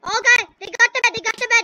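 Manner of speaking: loud pretend panic; mock alarm. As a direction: raise the alarm loudly, playing at panic. Pretend Bed Wars emergency.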